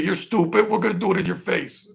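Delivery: mock taunt. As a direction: sneer like a gloating villain. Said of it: "They just say".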